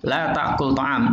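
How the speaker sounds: "La ta'kul ta'am" read slowly, clearly; slow classroom Arabic; slow model reading. Shown as a demonstration. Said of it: "Asalnya apa?".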